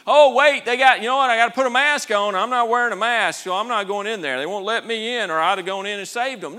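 loud, high sarcastic protest; hammed-up indignant objection; mock excuse. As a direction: rattle off a ridiculous excuse at full volume. Mock excuse voiced as the Lord.

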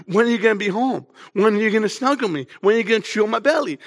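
quick, lightly voiced pleading little girl; a hint of a clingy little girl, fast; light little daughter voice. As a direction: mimic a toddler begging dad to come home, briefly. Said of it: "Lydia said".

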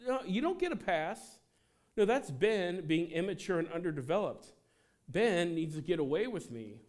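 voicing Jesus refusing a pass, high and loud; Jesus calling it out. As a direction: stop them firmly, then ease down. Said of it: "And Jesus is like".

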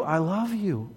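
tender reassurance, softening on "I love you"; lovingly. Real, not acted. Preacher reassuring the strict theology fans, lovingly. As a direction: ease down gently into affection. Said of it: "Very lovingly, I want to say".

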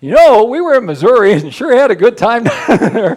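lightly laughing mock retirement tease; laughing hint. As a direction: drop a playful hint about leaving. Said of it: "Or I start to say".

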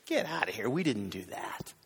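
low-pitched mock protest; acted incredulous denial, dropping in pitch; dismissive denial. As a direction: brush off the accusation. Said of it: "Their response every time was".

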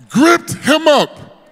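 slow, drawn-out Gripped him up; emphatic echo. Acted. Preacher echoing how Jesus held the killer, slow emphatic repeat. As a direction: lean hard on Gripped him up, slowly.

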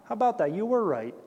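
light, quick, offhand remark; mock casual shrug. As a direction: toss it off as if it were nothing special. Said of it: "he didn't stand there and say".

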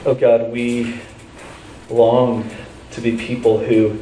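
measured prayer with long pauses. Real, not acted. Pastor leading the congregation in prayer, earnest and unhurried. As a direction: pray unhurriedly, phrase by phrase.

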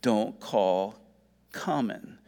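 slow pronouncement with long pauses; voice of God correcting. Acted. The voice telling Peter a second time, slow and deliberate. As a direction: spell out the command slowly, letting each part land. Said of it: "here comes this voice a second time".

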